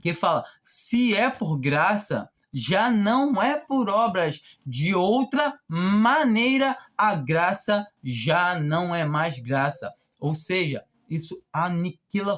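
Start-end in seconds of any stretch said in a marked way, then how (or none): 0.6-9.9 slow, weighty reading of the verses; solemn scripture reading. Acted. Preacher reads John to the congregation, solemn and measured. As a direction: read it like holy words, letting each phrase land.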